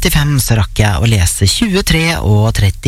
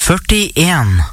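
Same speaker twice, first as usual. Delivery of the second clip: bingo caller; much slower than usual. Real, not acted. Calls out bingo numbers.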